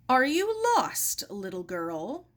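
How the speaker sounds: lightly voiced old doorman; kindly doorman. Old doorman addresses Sarah.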